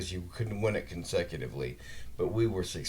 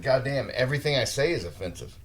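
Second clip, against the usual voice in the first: raised, fed-up exclamation; exasperated; 5 semitones higher, 4 dB louder than usual. Retold or imitated. Griping about touchy new hires, exasperated raised voice. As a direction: throw up your hands in disbelief. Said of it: "And it's like".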